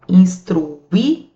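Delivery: "instruí-lo" slow, with a break before lo; drawn-out syllables. Shown as a demonstration. Teacher gives students an exam example, "instruí-lo" slowly in pieces. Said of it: "Como é que você separa?".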